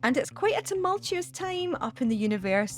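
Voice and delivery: bright read over a music bed; radio segment read. Acted. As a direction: present it like a radio slot.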